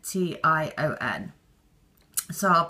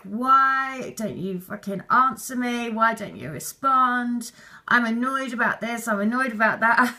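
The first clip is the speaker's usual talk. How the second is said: mock angry venting; 3 semitones higher than usual. Acting out what to write down to a twin, mildly angry. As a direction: vent with a touch of annoyance, half-hearted. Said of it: "all of the anger that's like".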